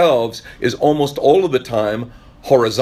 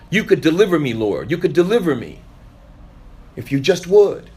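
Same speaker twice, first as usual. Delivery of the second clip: pleading prayer; 5 semitones higher than usual. Acted.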